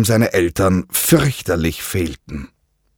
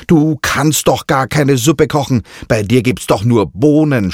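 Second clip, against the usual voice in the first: higher, cheeky taunting voice; mocking parrot; 5 semitones higher, 3 dB louder than usual. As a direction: sneer at her cooking. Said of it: "spottete Kiki".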